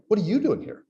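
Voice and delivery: "you" lifted in "What are you doing here?"; stress on you. Shown as a demonstration. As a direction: lean on "you", accusing. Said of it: "When you say to somebody".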